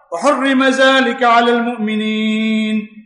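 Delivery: slow chanted Arabic verse; Quranic recitation. Acted. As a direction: draw out the closing verse.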